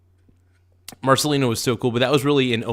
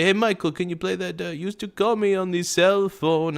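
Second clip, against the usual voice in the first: higher-pitched voice imitating a friend; friend's eager request; 6 semitones higher than usual. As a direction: put on a higher voice, asking for a song. Voices his friend's song request.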